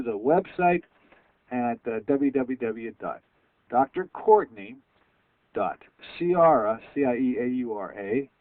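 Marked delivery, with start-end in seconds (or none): 2.1-8.3 slow, careful web address; slow spelling out. Shown as a demonstration. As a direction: spell it out slowly. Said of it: "The doctor spelled D R".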